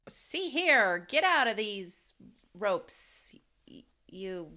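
put-on loud 1940s movie accent; old-timey stern dad, hammed-up; wartime posh. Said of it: "do your nineteen forties accent".

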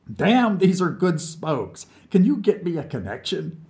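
put-on cheeky drunk from under the piano; mocking drunk. A narrator's reading. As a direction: poke fun at the crybaby. Vlad wants cigarettes.

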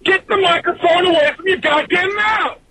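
high-pitched exasperated yell; re-enacted frustrated shout; retold scream. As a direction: yell it high, like you've finally snapped at a co-host. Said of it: "I kept wanting to fucking scream".

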